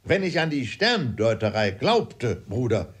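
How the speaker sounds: lightly voiced fuming father; exasperated father. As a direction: complain with mild exasperation.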